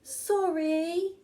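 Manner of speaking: sighed apology. Acted. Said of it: "sighed Betty".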